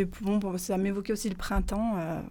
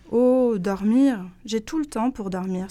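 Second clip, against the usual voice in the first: sighing; 6 dB louder than usual. Acted. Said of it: "soupire Rose".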